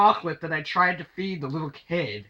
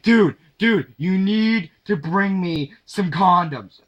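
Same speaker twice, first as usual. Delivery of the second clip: urgent friend; 3 semitones higher, 7 dB louder, slower than usual. Retold or imitated. Friend begging for condoms.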